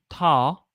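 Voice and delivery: "talk" as a long "taw"; "talk" with an open aw, no L; spelled-out T A W. Shown as a demonstration. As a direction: stretch "talk" into "taw" before the k. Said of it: "is literally T A W".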